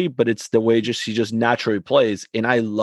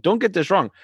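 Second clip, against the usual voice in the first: higher, insistent retold protest; heated protest; 5 semitones higher than usual. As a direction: argue your case with the referee. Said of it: "I was like".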